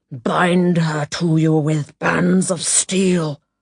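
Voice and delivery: slow, growled delivery. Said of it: "growled to no one in particular".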